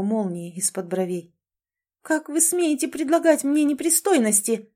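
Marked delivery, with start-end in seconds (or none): 2.0-4.7 outraged, raised voice; indignant outburst. Acted. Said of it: "зашумела она".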